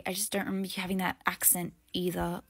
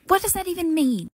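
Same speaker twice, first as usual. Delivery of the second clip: confused outburst; 5 dB louder than usual. Acted. Girl baffled by directions, complaining loudly. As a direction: throw up your hands in confusion.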